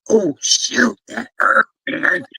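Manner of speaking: retold yelp of sudden pain, rising high; mock surprised pain. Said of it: "I was like".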